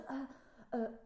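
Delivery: slow, halting attempt at French; imitating a tongue-tied learner's French accent; bad French accent. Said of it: "他们听不懂我的腔调".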